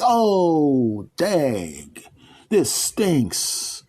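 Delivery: high, deflated whine; mock dismay. Man sulking after being sent to hell. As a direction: sulk about it.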